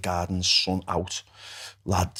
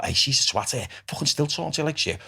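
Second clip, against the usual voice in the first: mock aggressive inner voice, held down; understated aggression, softer on the swear; 2 semitones higher, 4 dB quieter than usual. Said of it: "Aggressive voice".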